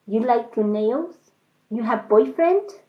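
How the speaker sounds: a hint of a Chinese accent, nosy questions; Chinese accent impression. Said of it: "comedy nail thing".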